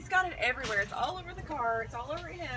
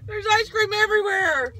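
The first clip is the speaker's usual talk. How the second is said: loud excited alarm; excited shout; 6 semitones higher, 8 dB louder than usual. Real, not acted. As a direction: call it out, half laughing. Ice cream spill.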